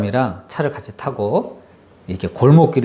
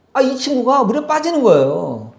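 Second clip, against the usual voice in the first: much higher, startled cry of alarm; a sudden alarmed outburst; surprised; 11 semitones higher than usual. Acted. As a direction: gasp as if watching him sink. Dramatic telling of Peter sinking.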